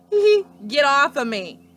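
loud giggle then plea; giggling protest. A narrator's reading. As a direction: laugh while pushing the pig off. Pig sits on Leroy.

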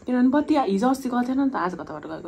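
talking while slurping noodles; words muffled by food; mouth full of noodles. Real, not acted. Seen 1: Noodle strands hang from her open mouth while she speaks.

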